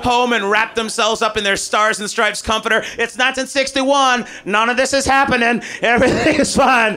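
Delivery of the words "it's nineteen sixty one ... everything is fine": mock denial. Voicing Americans in denial.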